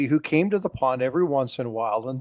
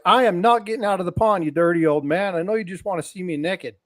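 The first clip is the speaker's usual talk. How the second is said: indignant lady; 5 semitones higher than usual. Retold or imitated. Lady refusing the rancher.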